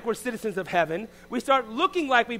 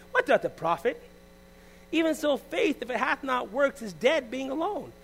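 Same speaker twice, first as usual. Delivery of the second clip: fervent scripture reading; 3 semitones higher than usual. Acted. Preacher reading James chapter two, building and fervent. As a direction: build the verse up with fire.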